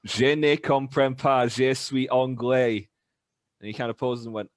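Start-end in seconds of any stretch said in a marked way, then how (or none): 0.0-2.9 slow schoolboy French. Retold or imitated. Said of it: "I just kinda stare at him and go".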